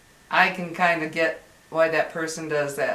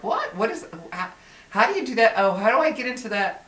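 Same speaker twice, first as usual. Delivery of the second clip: baffled questions, pitch jumping up at the start; confused; 4 semitones higher, faster than usual. Acted. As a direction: act out being stumped by technology. Acting out confusion over her phone.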